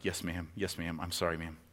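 soft, sheepish apology; quiet, sheepish "yes, ma'am"; meek. Retold or imitated. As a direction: shrink and mumble it. Cutter meekly apologizing to agent.

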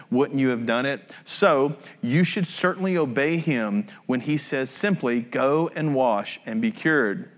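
calm scripture read. Acted. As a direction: read the passage evenly to the congregation. Reading scripture aloud.

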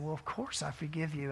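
soft, low, tender reassurance; quietly retold, letting the friend off; gentle forgiveness. Speaker answers his weeping friend, softly forgiving.

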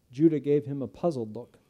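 ordinary delivery

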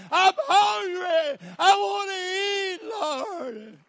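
high, loud, shouting preacher; camp-meeting whooping sermon; full-force preaching. Acted. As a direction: whoop the congregation up to a frenzy.

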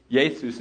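"Jesus" as YAY-soos; Greek pronunciation. Shown as a demonstration. Pastor asks for Hebrew equivalent, "Jesus" said as Greek YAY-soos. Greek name quoted while teaching.

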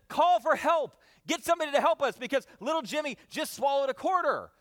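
panicked wife urging her husband; frantic mom. Retold or imitated. Wife begging husband for help, frantic. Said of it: "she's just frantic".

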